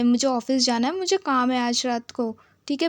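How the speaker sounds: hammed-up loud objection; protesting. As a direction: argue to be let go. Lifted up, protesting he must leave.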